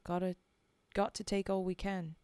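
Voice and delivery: put-on Cockney-ish accent. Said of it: "that original accent".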